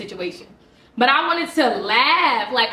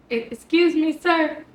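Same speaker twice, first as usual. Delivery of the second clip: higher, stunned disbelief; incredulous excuse me; 4 semitones higher than usual. Retold or imitated. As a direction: ask it like you can't believe your ears. Teacher stunned by father's reply.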